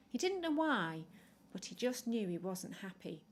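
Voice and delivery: lively bedtime storyteller voice; reading to children. A narrator's reading. Storyteller reading a penguin story to children, lively. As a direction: draw the little listeners into the tale.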